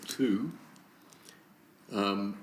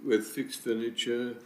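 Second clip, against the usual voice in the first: dictating. Real, not acted. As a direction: dictate it in separate chunks. Repeating motion wording for the typist.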